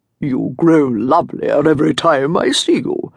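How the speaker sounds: deep, frog-like, croaky rumbling voice. Narrator reading a man addressing a woman: deep croaking voice. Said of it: "he said in a deep, croaking voice".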